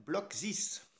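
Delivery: English name with a French accent. Real, not acted. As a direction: say it the French way, slowly. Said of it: "Avec mon accent français".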